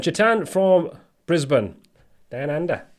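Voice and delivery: a lightly done, bad Aussie accent, slowed; mock Australian greeting, barely put on; half-hearted Australian accent; terrible Australian accent. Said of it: "That was a terrible accent".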